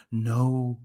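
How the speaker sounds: soft, low, drawn-out "no"; hushed storybook "no"; whispered. A narrator's reading. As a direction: echo it quietly, low in the voice. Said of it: "I whispered too".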